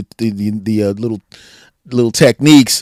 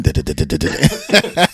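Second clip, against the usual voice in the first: mock sales patter; 7 semitones lower than usual. Mocks salesman's patter with nonsense syllables.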